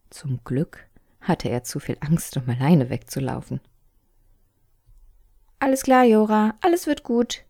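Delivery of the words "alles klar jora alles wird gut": put-on high, bright girl's voice calming him; reassuring little sister. A narrator's reading. Sister calls down to her brother that all is well, high. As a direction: tell him it's fine.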